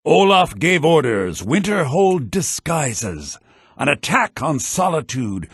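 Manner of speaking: deliberate verse reading; poem recitation. Acted. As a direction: declaim it like a court poem. Bard recites the Olaf verse.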